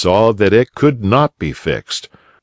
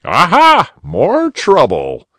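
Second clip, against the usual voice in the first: cried; 9 semitones higher, 3 dB louder, slower than usual. A narrator's reading. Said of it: "cried Uncle Wiggily".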